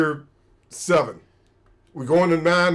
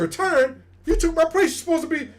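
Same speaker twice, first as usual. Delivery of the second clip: much higher, incredulous; mock disbelief; 11 semitones higher, faster than usual. Hearing his own replacement is retiring, high incredulous disbelief. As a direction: react like the rug was pulled out.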